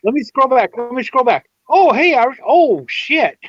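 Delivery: high-pitched mock startled scrambling; imitated flustered streamer. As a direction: act out suddenly noticing someone you missed. Acts out streamer noticing a comment late.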